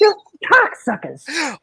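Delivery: slow, drawn-out insult; movie quote. Retold or imitated. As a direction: quote the clip straight. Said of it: "I took that clip".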